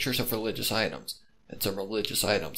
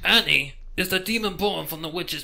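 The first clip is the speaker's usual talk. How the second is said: higher, louder eerie lore voice; pony tells the detective the legend, eerie and raised; ominous storyteller pony; 9 semitones higher, 7 dB louder than usual. Acted. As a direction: spin the legend like a dark secret. Pony explains the demon.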